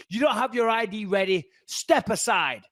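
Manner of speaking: lightly imitated officious scolding; mildly mocked bossy orders; mean, nasty guard. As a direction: give a hint of a nasty guard, pitched a bit up. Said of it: "really mean and nasty with it".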